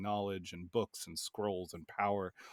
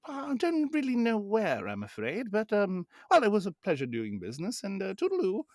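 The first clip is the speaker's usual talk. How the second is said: higher, hammed-up French accent, oily and polite; a gushing French merchant, much higher than his own voice; 11 semitones higher, 4 dB louder than usual. The fiend thanking the party after a trade, in a put-on French accent. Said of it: "He has a French accent".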